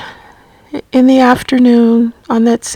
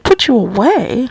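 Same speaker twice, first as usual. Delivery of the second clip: taken aback. Retold or imitated. Retold shocked question to mother.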